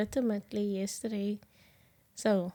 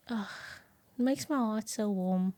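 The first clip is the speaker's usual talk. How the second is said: ordinary talk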